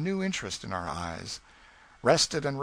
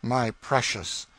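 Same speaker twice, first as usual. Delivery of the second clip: doting father; slower than usual. Acted. Father answers daughter's cry.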